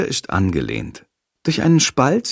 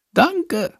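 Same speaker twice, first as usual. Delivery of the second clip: whispered thanks. Acted. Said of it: "flüstert er".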